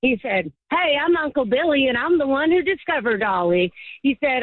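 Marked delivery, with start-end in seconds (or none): 0.7-3.7 put-on Southern accent. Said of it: "I'm gonna do a Southern accent".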